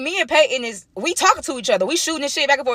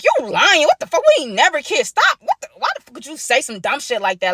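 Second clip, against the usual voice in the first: angry denial; 4 semitones higher than usual. Retold or imitated. Denying the kiss, upset.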